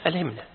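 ألهمنا said alhimna, kasra on the ha; corrected vowel. Shown as a demonstration. Sheikh repeats the correction to the student: ألهمنا with kasra. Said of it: "correcting student's reading".

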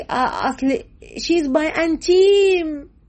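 high, slow, drawn-out imitation of a chatty girl; mimicking a friend. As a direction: stretch it out like a gushing girlfriend. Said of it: "تقول لي".

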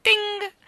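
high, loud doorbell ting; sharp high "ting"; doorbell ring. A narrator's reading. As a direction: imitate a ringing doorbell. Doorbell sound imitated by narrator.

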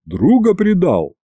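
high, drawn-out wounded reproach; bitter sigh. A narrator's reading. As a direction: lament a friend's betrayal, slowly. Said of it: "горько вздохнула средняя голова".

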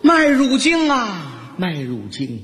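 hammed-up indictment of an object; mock lament. Man addresses the malted-milk bag in his head, theatrical reproach. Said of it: "我拖着这袋麦乳精心里说呀".

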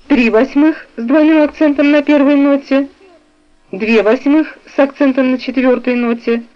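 ordinary delivery

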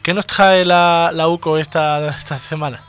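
put-on slow, drawn-out French accent. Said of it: "Porque estamos haciendo acento francés".

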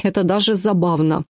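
ordinary delivery

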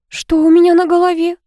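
put-on alarmed girl asking fast; worried girlfriend voice. A narrator's reading. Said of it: "забеспокоилась Вика".

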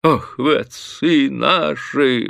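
high, slow gushing cry; tipsy bailiff gushing at his master, high and drawn out; exclaiming fawningly. A narrator's reading. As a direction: gush over the master. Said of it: "воскликнул Софрон".

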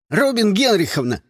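put-on excited children shouting over each other; clamoring kids. A narrator's reading. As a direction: call out to the teacher in a rush. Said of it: "загалдели ученики".

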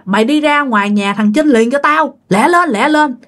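khẩn trương. Retold or imitated. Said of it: "nghe cái giọng của ảnh rất là khẩn trương".

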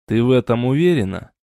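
ordinary delivery

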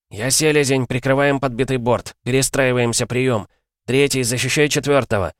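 pilot over the radio. A narrator's reading. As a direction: command the wingmen over the radio. Commander radios orders.

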